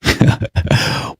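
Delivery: quiet, voiceless chuckle; soft breathy laugh under the breath; brief dismissive-sounding chuckle; short laugh. Real, not acted. Laughs before answering the accusation.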